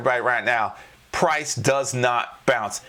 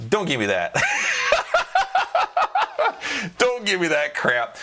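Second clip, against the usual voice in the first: laughing protest; 11 semitones higher than usual. Real, not acted. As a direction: shout "Don't give me that" through laughter. Laughing rejection of "bounce.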